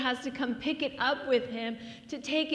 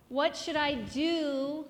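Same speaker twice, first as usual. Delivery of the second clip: higher, drawn-out questioning; conflicted Pilate; 3 semitones higher than usual. Acted. Pilate before the crowds over Jesus, lightly acted conflicted pleading. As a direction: ask it slowly, torn over the decision. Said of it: "he's very conflicted with this decision".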